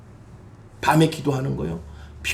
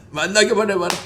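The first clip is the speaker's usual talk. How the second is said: laughing mock threat; 3 semitones higher than usual. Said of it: "same line laughed".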